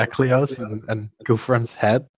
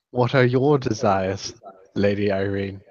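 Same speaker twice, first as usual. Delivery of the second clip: deadpan; 4 semitones lower, 4 dB quieter than usual. Retold or imitated.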